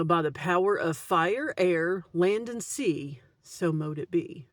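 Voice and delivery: measured ritual invocation, slowly; solemn spell-casting, slowly; slow incantation. Shown as a demonstration. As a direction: intone it like a spell closing. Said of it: "you could say".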